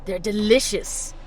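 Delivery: laughing gloat. Acted. Villain relishing hate.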